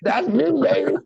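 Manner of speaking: very high, crowing retold glee; excited boasting. Hearing himself on the radio, high excited crowing. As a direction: crow it like a proud radio star.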